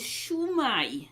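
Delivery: "Shwmae" said as SHOO-my; Welsh greeting shwmae. Shown as a demonstration. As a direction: say "Shwmae" with a long oo, then my. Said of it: "the saying is".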